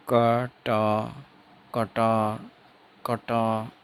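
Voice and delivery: कटार drawn out, ending on the vowel; silent final r. Shown as a demonstration. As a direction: say कटार syllable by syllable, dropping the last r. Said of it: "रे नहीं बोलेंगे last में". (कटार के अंत का र चुप)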